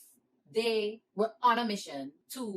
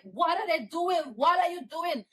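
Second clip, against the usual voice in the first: retold panicked question; 7 semitones higher, 4 dB louder than usual. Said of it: "I'm like".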